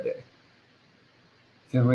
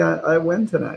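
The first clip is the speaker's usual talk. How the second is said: ordinary talk, nothing marked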